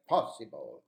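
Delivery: "possible" with a wide-open first vowel. Shown as a demonstration. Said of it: "open your mouth, and those two vowels sound".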